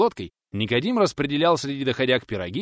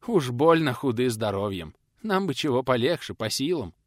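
ordinary delivery

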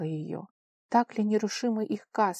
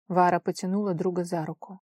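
usual speaking voice

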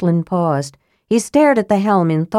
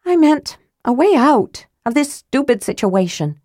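higher, mournful lament; Tika, sulking girl, self-pitying; 7 semitones higher than usual. Acted. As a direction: wallow dramatically in misery. Tika exasperated.

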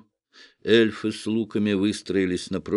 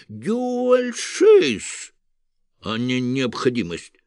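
high, bleating goat-devil voice; 6 semitones higher, slower than usual. A narrator's reading. Devil shielding the condemned, bleating high.

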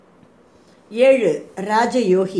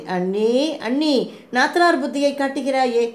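higher-pitched, lightly playful chiding; a touch of playful reproach; affectionate teasing; 6 semitones higher than usual. A narrator's reading. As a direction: tease fondly, drawing out the opening address. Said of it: "செல்லமாக சிரித்தாள்".

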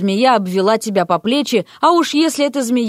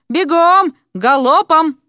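loud, higher hurry-up commands; urgent shout; 7 semitones higher, 5 dB louder, slower than usual. Acted. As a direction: drive them on at a gallop. Rector urging the coach.

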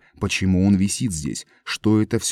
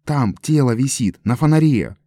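louder, higher yelling; frantic shout; 6 semitones higher, 5 dB louder than usual. A narrator's reading. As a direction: scream the news out. Эд кричит о трупе. (Эд в панике кричит о трупе, громко и высоко)

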